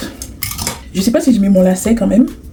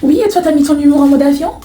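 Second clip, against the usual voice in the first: higher, drawn-up mocking question; sassy comeback; 5 semitones higher than usual. Woman answering the jibe about her hair, sassy retort. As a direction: throw the taunt back with exaggerated lift.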